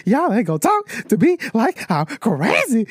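put-on high teary kid voice; bawling kid. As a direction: voice a sobbing boy protesting. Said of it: "he is just bawling his eyes out".

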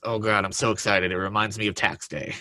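flat, dead monotone. Retold or imitated. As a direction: say it with zero excitement. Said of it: "the most monotone voice you'll ever hear".

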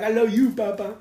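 daughter's voice. Retold or imitated. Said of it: "they be like".

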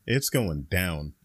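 very slow, low, dramatic fight hype; fight announcer. Acted. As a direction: drag it out like a title bout announcer. Hyping the rematch like a fight.

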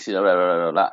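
usual speaking voice

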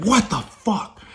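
high startled squeal; high panicked what the fuck; freaked-out yelp. Retold or imitated. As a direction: shriek of sudden fright. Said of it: "I freaked out".

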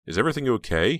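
concerned. A narrator's reading. Heather asks Snowman about home, concerned. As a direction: ask with real concern, pitch rising. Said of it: "asked with real concern".

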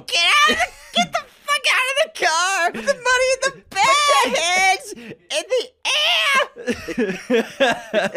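high screaming robber yell; bank robber. Retold or imitated. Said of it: "Place Beyond the Pines".

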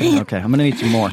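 talking while chewing; chewing fast while talking; mouth full. Real, not acted. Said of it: "You chew fast".

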